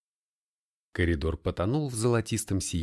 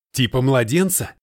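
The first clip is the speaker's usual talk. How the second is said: outraged; 3 semitones higher, 8 dB louder than usual. A narrator's reading. Russian horrified.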